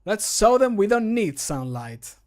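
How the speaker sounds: high, loud, drawn-out heroic battle line; battle cry. Acted. Game character opening a battle in a cave, rallying cry. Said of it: "my character is saying".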